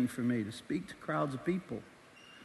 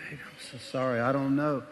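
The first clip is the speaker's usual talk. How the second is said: sheepish apology; 3 semitones lower than usual. Retold or imitated. Husband apologizes to wife.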